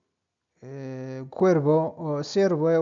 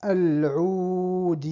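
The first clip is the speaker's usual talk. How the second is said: quick run-through; faster than usual. Shown as a demonstration. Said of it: "لأنغا-، غامي".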